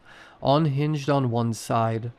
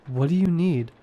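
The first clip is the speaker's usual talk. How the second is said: trembling; 5 semitones higher than usual. A narrator's reading. Frightened question to monster.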